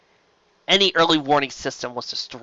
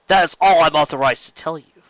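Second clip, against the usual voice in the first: by rote; 3 semitones higher, 6 dB louder than usual. Acted. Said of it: "saying the words obviously by rote".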